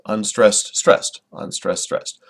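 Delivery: "unstressed, stressed" chanted as a weak-strong pair; alternating beat. Shown as a demonstration. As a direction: tap out "unstressed, stressed" evenly like a slow beat. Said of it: "an unstressed syllable with a stressed syllable".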